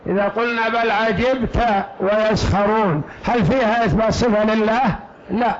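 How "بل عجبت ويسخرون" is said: عجبت read 'ajibta, ending in -a; fatha on the ta. Shown as a demonstration. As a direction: give عجبت an open "ta" ending. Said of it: "على قراءة فتح التاء".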